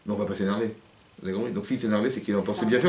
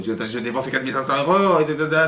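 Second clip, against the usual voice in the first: mock angry husband; 4 semitones higher than usual. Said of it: "Il va se mettre en colère contre elle".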